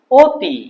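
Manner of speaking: অতি pronounced 'o-ti', rounded start; closed o vowel. Shown as a demonstration. Teacher repeats the right form, অতি as 'o-ti'. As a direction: round the opening of অতি to 'o'. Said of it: "অ এর বদলে এটা হবে ও".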